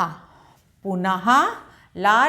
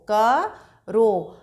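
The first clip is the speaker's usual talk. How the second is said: करो stretched very slowly; drawn-out word; much slower than usual. Shown as a demonstration. Teacher models करो slowly for pupils, stretched. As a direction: hold the ओ of करो long. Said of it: "तो रो".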